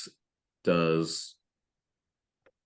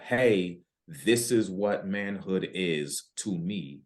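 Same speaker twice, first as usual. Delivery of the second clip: raised voice, mildly emphatic declaration; mock shouting; 2 semitones higher, slower than usual. Man with no voice proclaiming himself to the world, mildly mock shouting. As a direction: announce it a bit louder, short of a real shout. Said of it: "start shouting louder".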